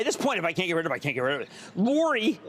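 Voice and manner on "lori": Philly accent. Real, not acted. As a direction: greet the caller with Philly vowels. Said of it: "there it is again".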